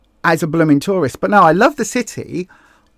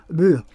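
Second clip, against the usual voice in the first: disgusted ugh. Real, not acted. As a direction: let out a brief groan of disdain. Disgust at tourist tat.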